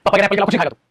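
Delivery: fast mock scolding dad, laughing; angry dad. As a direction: rattle it off like a dad telling off his kid. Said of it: "गुस्से में तो बोलेंगे ना पापा".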